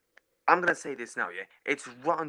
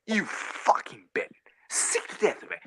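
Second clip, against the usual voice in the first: muttered curse; slower than usual. Real, not acted. Disgusted aside after rant.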